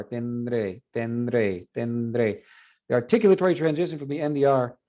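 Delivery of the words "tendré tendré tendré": tendré said with the D slipping in naturally between n and r; pronunciation demo. Shown as a demonstration. Teacher demonstrates tendré for students trying it aloud. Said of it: "That transition from the end of the R".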